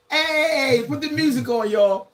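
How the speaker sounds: excited call. Real, not acted. Calling for music.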